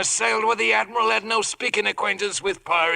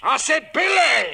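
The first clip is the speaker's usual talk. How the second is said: scolding laugh; 7 semitones higher, 4 dB louder than usual. Acted. Silver scolds parrot again.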